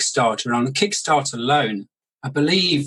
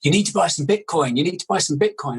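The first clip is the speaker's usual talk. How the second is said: higher, insistent retold urging; urgent friend imitation; 4 semitones higher than usual. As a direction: imitate an excited friend pushing a tip. Retells friend urging him to buy.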